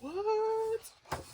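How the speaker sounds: high, startled what; shocked what. Retold or imitated. First seeing the picture, a high shocked what. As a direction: squeak it out in disbelief. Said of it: "I was like".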